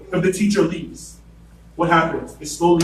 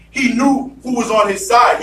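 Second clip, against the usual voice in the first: preached shout; 5 semitones higher than usual. Shown as a demonstration. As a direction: hammer home the faith. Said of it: "preacher repeats line, building".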